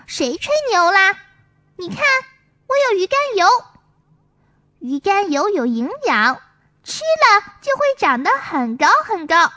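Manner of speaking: a hint of a boasting little boy; lightly voiced child. Songsong boasts to Maomao, lightly voiced child. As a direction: show off your prize bottle. Songsong shows the cod liver oil.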